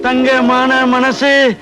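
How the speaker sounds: very slow, drawn-out praise; lingering, awestruck flattery; gushing admiration. Acted. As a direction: stretch each word out in admiration. Constable gushes over inspector's generosity.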